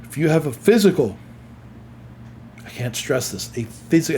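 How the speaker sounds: talking through a stifled yawn; holding back a yawn. Real, not acted. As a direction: fight off a yawn. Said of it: "and I'm trying not to yawn".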